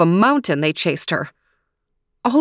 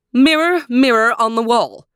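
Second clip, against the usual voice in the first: imperious queen calls her mirror; demanding queen; 5 semitones higher, 4 dB louder than usual. Acted. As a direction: command the mirror sharply. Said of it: "she demanded".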